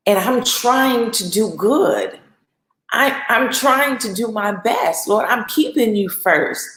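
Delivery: slow, drawn-out pleading; earnest plea. Acted. Believer in doubt talking to the Lord, slow earnest plea. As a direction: plead your case, stretching the words.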